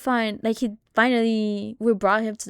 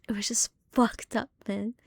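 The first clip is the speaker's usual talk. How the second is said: whisper; 7 dB quieter than usual. Real, not acted. Telling a creepy family story.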